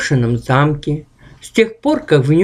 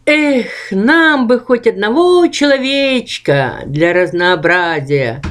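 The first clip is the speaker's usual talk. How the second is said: regretful rustle; 4 semitones higher than usual. Acted. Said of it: "сожалея прошуршало".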